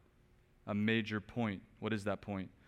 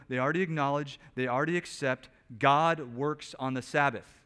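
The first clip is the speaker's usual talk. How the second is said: normal talking voice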